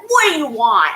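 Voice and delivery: mock-annoyed door-answering snap; acted-out defiance; confrontational attitude. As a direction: say it with a bit of attitude. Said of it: "opened the door with this attitude".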